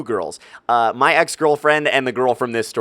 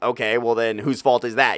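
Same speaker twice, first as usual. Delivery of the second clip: ordinary talk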